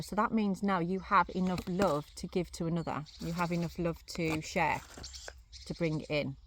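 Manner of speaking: talking while chewing gum; words round a piece of gum. Real, not acted. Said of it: "Sorry if I keep chewing".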